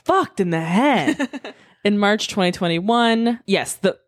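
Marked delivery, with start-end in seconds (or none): 0.0-1.8 laughing. Real, not acted. Laughs through the words.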